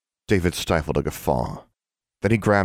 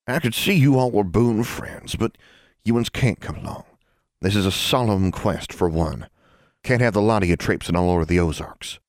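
lightly voiced old country woman; a hint of a stern mountain granny; firm old granny; 4 semitones higher than usual. Granny telling children they can't come along, firm.

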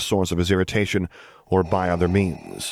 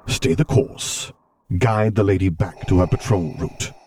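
Darth Vader voice; 3 dB louder than usual. Acted.

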